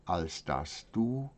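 measured verse reading with long pauses between lines; solemn poem recitation. Acted. Reading brethren a poem from mother, measured solemn recitation. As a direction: recite it as a devout prayer in verse, line by line.

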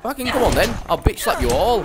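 high, loud come-on-then bellow; taunting shout. Real, not acted. Gamer yelling at charging bandits, loud taunt. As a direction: dare them to rush you.

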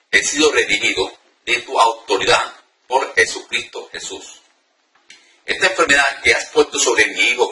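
firm prayer read aloud. Shown as a demonstration. Preacher reading the deliverance prayer aloud, firm. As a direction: declare the prayer with conviction. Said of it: "la voy a leer para que ustedes escuchen".

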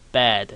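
bad said with a short open vowel; short ae demo. Shown as a demonstration. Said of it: "是短母音bad". (短促示范bad)

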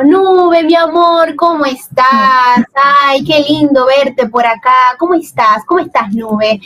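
a touch of Pachín's cuddly hello to a fan; affectionate greeting. Retold or imitated. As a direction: greet her like a dear friend, mock-sweet. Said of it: "es mucho más cálida".

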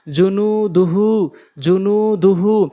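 slow জুনু দুহু, endings held; drawn-out madd. Shown as a demonstration. Teacher applying madd in a word, drawn-out endings. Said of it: "প্রয়োগ করে পড়ব".

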